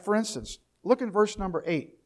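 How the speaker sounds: ordinary talk, nothing marked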